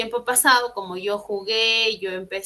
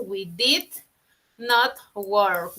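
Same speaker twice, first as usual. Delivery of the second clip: slow model sentence; 2 semitones lower, much slower than usual. Shown as a demonstration.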